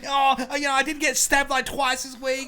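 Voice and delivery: hammed-up Armadale bloke impression; Armadale local impression. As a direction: beg mate to come over, playing it down. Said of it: "let me do an impression".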